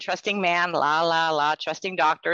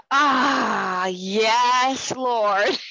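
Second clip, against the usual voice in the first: put-on higher, crying small-child reply; tearful little child; 4 semitones higher, much slower than usual. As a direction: answer like a hurt little girl through tears. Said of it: "I was really little".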